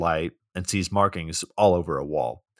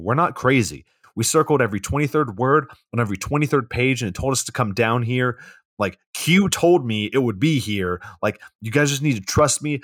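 higher, insistent crank justifying himself; mock frantic pleading; 4 semitones higher, 4 dB louder than usual. Man pleading with a police officer, mock frantic. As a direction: push to be believed, hammed-up urgency.

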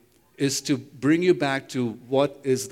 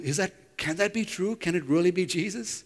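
worried; 5 semitones higher than usual. Retold or imitated. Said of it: "you're getting a little worried".

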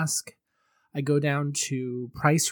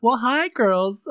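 femme fatale; 7 semitones higher, 5 dB louder, slower than usual. Acted. Host persona greeting.

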